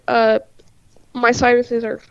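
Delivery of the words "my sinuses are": stuffy blocked nose. Real, not acted. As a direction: talk through a congested nose. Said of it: "in case you can't hear".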